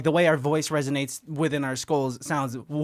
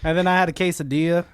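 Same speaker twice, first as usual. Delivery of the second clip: impression of a friend. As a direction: mimic his laid-back talk. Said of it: "This is, this is good, Christian".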